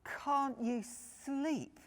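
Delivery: 1 groaning. Acted. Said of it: "groaned Big Bear".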